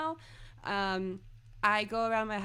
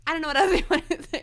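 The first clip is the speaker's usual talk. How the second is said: deadpan; 9 semitones higher, 9 dB louder, faster than usual. Retold or imitated. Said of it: "just the delivery".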